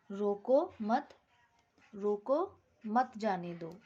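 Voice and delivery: रोको said alone, a break, then मत जाने दो run together; pause after रोको. Shown as a demonstration. Teacher showing the class a comma example, pausing after रोको. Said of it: "यहाँ पर comma रोको के बाद है".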